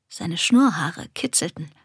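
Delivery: plain reading voice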